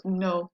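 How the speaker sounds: "Noël" split as no-EL; vowels pronounced separately. Shown as a demonstration. Teacher showing the tréma, "Noël" in two distinct syllables. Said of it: "they're pronounced separately because of the accent".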